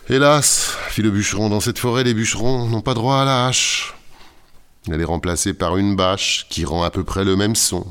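high, loud woeful woodcutter; lamenting woodcutter. Acted. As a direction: wail it like a wronged woodcutter. Woodcutter laments his lot.

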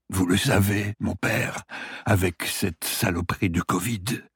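a hint of a weak old patient; dying man voice.

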